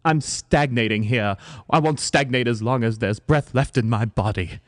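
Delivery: theatrical British actress; British accent. Acted. Mother defending her stage return, British accent. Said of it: "we can do British".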